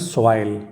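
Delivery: सॉइल low, with a full "oy" glide; stretched "oy" in सॉइल; pronunciation model. Shown as a demonstration. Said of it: "ये sound कैसे आता है".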